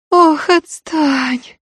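high, slow moan through barely parted lips; talking with mouth closed. Acted. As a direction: groan it out with the jaw almost shut. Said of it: "простонала та, почти не разжимая губ".

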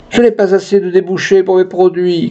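high-pitched, sustained declamation; industrialist proclaiming. Acted. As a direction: proclaim a grievance, without real shouting. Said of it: "clama un industriel".

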